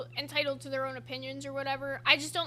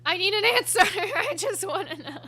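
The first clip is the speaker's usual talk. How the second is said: high, loud quote breaking into laughter; laughing mock plea; 5 semitones higher, 7 dB louder than usual. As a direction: plead it loudly, then crack up. Retells own plea, breaking into laughter.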